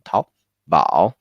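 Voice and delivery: Taobao with Tao rising, then bao dipping; second tone on Tao. Shown as a demonstration. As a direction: demonstrate Taobao, lifting the first syllable. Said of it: "second tone".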